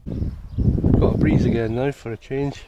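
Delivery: dry sarcastic remark, slow. Real, not acted. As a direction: say it deadpan, meaning the opposite. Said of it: "I'm being sarcastic".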